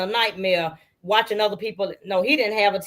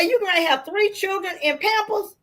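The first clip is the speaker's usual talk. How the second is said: much higher, laughing through the words; laughing disbelief; 11 semitones higher than usual. Retold or imitated. Sister laughing at Niecy about three children in Pampers, high and laughing. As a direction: squeal it out in amused disbelief.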